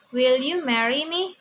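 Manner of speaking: "Will you marry me?" with emphasis, pitch lifting into the question; questioning intonation. Shown as a demonstration. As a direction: stress it and let "marry me?" rise clearly. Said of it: "kamu harus intonasinya harus ada penekanan". (intonasi bertanya dengan penekanan)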